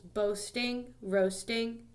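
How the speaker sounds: "Boasting, roasting" with the first syllables stressed; each word set apart, front syllable stressed. Shown as a demonstration. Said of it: "The stress is on the first one".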